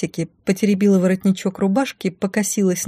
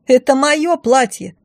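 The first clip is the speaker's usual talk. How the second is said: outraged; 8 semitones higher, 4 dB louder, slower than usual. Acted. Blonde shrieks over dress.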